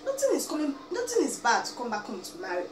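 normal talking voice

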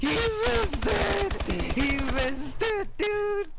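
shrieking with disbelief, drawn out; excited high yell. Real, not acted. Teammate's miss, excited outburst.

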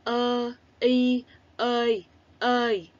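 ơ, y, ơi said slowly and separately; syllable spelling. Shown as a demonstration. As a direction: spell it out clearly for little learners. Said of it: "đánh vần là".

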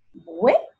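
"vuela" with VUE pitched high, then LA apart; stress on VUE. Shown as a demonstration. Teacher showing the tonic syllable, stressed VUE in "vuela". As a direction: lift the first syllable of "vuela" and pause. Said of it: "bue va a ser la sílaba tónica".

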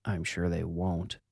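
mumbled. A narrator's reading. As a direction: mutter it under your breath, barely audible. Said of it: "Joe mumbled to himself".

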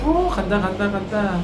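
rising thrill as it departs; 출발에 들뜬 외침; excited. Real, not acted. Cable car starts moving. (케이블카 출발에 신난 목소리)

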